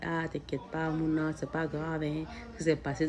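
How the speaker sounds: gently calm a hurt part of yourself; soul soothing ego. Retold or imitated. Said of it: "c'est mon âme qui vient parler à mon ego".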